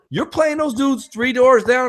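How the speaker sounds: high, slow stunned question; amazed. Retold or imitated. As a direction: let it sink in. Stunned realization.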